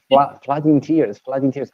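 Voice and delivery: "flood in tears" with the V said as F; mock German take on the band name, "flood in tears"; German mispronunciation. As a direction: imitate Germans saying "Fla-, flood in tears". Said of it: "So it's like".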